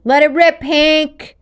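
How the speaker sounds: high, loud shout. Acted. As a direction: yell the order from the gondola. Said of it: "Garrett shouted".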